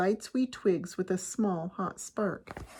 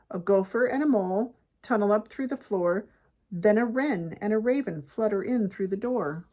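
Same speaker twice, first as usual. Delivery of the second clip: story narration; 2 semitones higher, 6 dB louder than usual. A narrator's reading. Reads picture book aloud.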